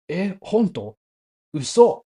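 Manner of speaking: high, incredulous exclamation; acted disbelief. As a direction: imitate someone astonished all over again. Friend's disbelief repeated over umeboshi.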